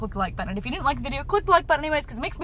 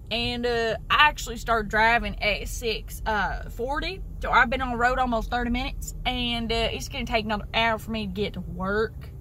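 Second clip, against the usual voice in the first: Southern accent; 4 semitones lower than usual. Real, not acted. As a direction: let the words roll out real Southern. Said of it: "something real southern".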